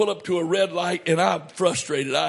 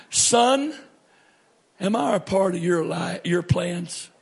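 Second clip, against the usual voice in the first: gently voiced sweet voice of God. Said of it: "this sweet voice says to me".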